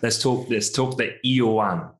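slow, drawn-out mock Jamaican accent. Co-host joking into the topic, slow mock Jamaican accent. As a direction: lay on a playful Jamaican accent, nice and slow. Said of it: "in my best Jamaican accent there".

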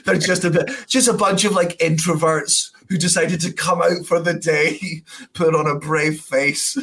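giggling the joke out; amused, pitch up high; laughing. Real, not acted. Laughing joke about fans.

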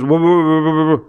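acted urgent interruption; halting a rant. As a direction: cut in to calm someone raging. Husband halts wife's rant in joke.

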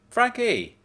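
high bright greeting, cried out; excited exclaim. Acted. Friend bursting out at the door, excited exclaim. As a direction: greet him with a burst of delight. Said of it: "she exclaimed in my face".

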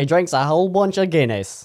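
a mock Irish accent, lightly done; hammed-up Irish brogue on a pub line. Podcast host jokingly tries an Irish accent. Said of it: "That's my Irish accent".

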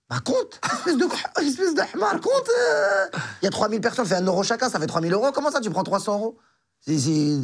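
put-on yelling in outrage at a naive kid; furious shout. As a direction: bellow at him like a scandalized manager. Manager scolds him, shouting.

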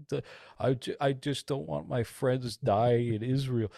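hammed-up tearful plea; mock sobbing. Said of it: "Ethan sobbing and being like".

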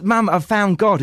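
high, slow retold announcement to mum; imitating awestruck son. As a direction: act out a son's big revelation. Voicing son's solemn announcement.

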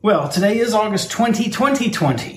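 high, lilting date reading; sing-song announcement. Acted.

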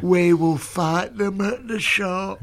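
mock Churchill speech. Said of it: "No, you need to be more prosaic than that".

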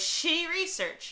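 slow high laugh-cry. Real, not acted. Friends joking about the researcher, laughing. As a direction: crack up at the joke. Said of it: "Oh my God".

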